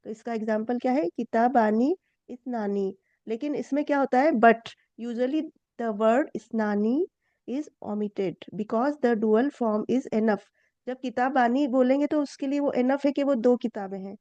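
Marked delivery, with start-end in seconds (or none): 4.3-10.4 slow, careful read of the textbook; a teacher reading the English lesson slowly to students; reading the textbook aloud. Shown as a demonstration. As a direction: read it out slowly for the class, word by word. Reads the note aloud.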